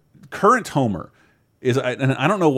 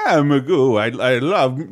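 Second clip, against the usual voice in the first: Magoo impression; 4 dB louder than usual. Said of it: "I'm not doing a good one at all".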